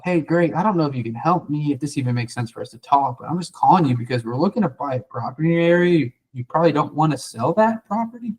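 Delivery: lightly voiced unsure caller; humble and a little lost, as if unsure you can help; lost puppy dog. Shown as a demonstration. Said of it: "you wanna sound like a lost puppy dog".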